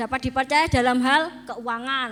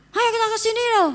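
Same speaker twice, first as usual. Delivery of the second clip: mock high, harsh, barked snapping voice; 9 semitones higher than usual. Explaining to listeners how husbands speak, mimicking a husband's snapping tone. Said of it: "nadane orang laki itu memang bentak".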